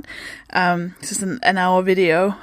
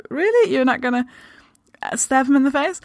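incredulous; 4 semitones higher than usual. Pretend. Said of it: "everyone else in the world are like".

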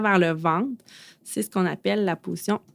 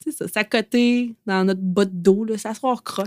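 far from mic; 2 semitones higher than usual. Real, not acted. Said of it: "On n'entend plus Catherine".

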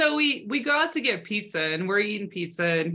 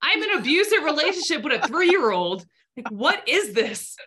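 higher and louder, hammed-up disbelief; exaggerated outrage at a toddler; mock exasperation; 6 semitones higher, 4 dB louder than usual. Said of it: "I'm like".

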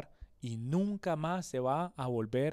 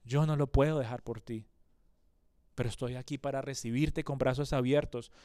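gentle invitation; 2 semitones lower than usual. Acted. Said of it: "te invita y te dice".

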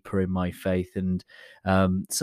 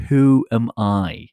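solemn biblical quote; 3 dB louder than usual. Retold or imitated. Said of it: "the actual words".

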